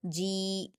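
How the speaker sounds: जी with the vowel held two beats; stretched madd. Shown as a demonstration. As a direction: softly draw out जी. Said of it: "दो हरकत खींचेंगे".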